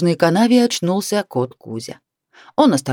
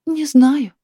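a higher sighing "Не знаю" from the wife; 10 semitones higher than usual. A narrator's reading. Wife answering husband, "Не знаю" sighed higher. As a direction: let "Не знаю" go on a weary sigh. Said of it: "опять вздохнула Наталья Васильевна".

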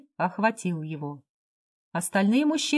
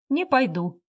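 usual speaking voice

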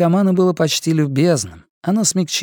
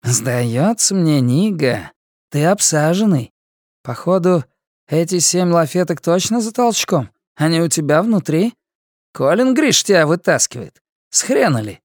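higher, sneering junkie voice; mocking inmate; 4 semitones higher than usual. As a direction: taunt him with a smirk. Guatemalan mocks Karl.

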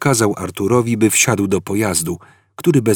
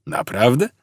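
gentle; 4 semitones higher than usual. A narrator's reading. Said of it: "łagodnie zapytał stary".

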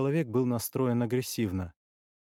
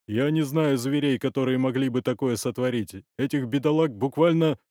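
lightly voiced old leader, louder; forceful old chief trailing into a pause; powerful old man; 2 semitones higher, 6 dB louder than usual. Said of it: "Старческий голос замолчал, подбирая слово".

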